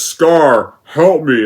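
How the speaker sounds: put-out, annoyed, grudging tone. Imitating the remake's Mufasa asking for help: imitating an annoyed plea. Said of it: "as if he's just annoyed".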